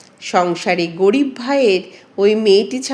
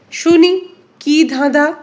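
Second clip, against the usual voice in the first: put-on higher, louder, keen old neighbour asking to hear the riddle; eager neighbour woman; 7 semitones higher, 4 dB louder than usual. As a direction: pounce on it, itching to hear the riddle. (উৎসুক প্রতিবেশিনী, উঁচু ও জোরালো গলায়)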